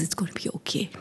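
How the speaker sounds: whispered comfort, barely audible; soft whisper. Retold or imitated. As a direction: breathe it softly like soothing a child. Mother comforting crying child.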